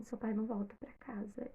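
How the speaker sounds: soft whispered bad news; mother whispering on the phone that her father won't come home. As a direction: barely voice it, like news too heavy to say aloud. Mother breaks the hard news.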